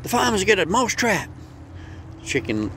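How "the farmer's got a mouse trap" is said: much higher, squeaky small-mouse voice; a panicked tiny mouse begging for help, pitched way up; frantic little mouse. Acted. Mouse begs the chicken for help, high and squeaky. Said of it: "He ran up to the chicken".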